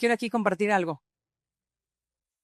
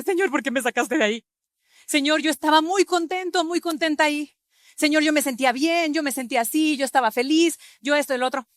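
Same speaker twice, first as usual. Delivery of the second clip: whining complaint; 5 semitones higher, 3 dB louder than usual. Pretend.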